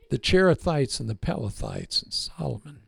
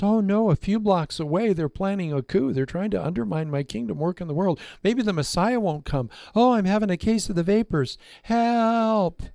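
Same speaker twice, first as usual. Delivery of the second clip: lightly hammed-up fretting, higher, a laugh at the end; God in mock panic; 4 semitones higher than usual. God mock-fretting about the plot a few blocks away, hammed-up panic. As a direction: play God pretending to panic over the coup. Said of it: "he goes".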